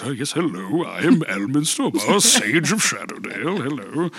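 put-on a light sing-song old wizard greeting; lightly voiced sing-songy Merlin, rising at the ends; Ed Greenwood impression. Guest imitates Ed Greenwood as Elminster for the host, lightly sing-song. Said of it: "he goes".

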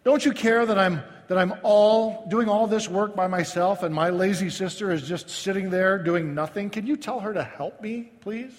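rising, pleading complaint, slowed on the first question; hammed-up frustration boiling over; exasperated outburst. Martha blows up at the Lord over her sister: exasperated plea. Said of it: "and she blew up".

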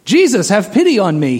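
high desperate cry for mercy; yelling out. Retold or imitated. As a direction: call out to Jesus, pleading. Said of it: "he's yelling out".

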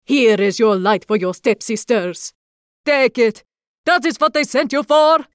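loud and rising to a high cry; angry shout. Acted. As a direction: shove the skull at her, shouting. Baba Yaga hands over the skull.

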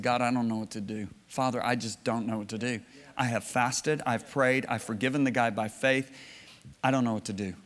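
low, subdued plea; helpless prayer. Retold or imitated. Man dropping his hands before God, helpless. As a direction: pray it quietly, at a loss.

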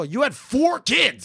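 high, drawn-out disbelief; incredulous exclamation. Acted. Younger adult to older people of same age, incredulous.

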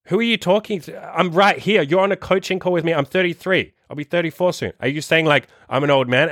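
high-pitched incredulous retort to a client; acting out his own baffled answer on a coaching call; mock incredulous reply. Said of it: "And I'll be like".

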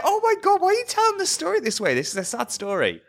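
high, fast incredulous outburst; mock dismay. Podcaster recalling her shocked reaction to the anchor. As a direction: shriek at the absurd news read. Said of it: "And I'm like".

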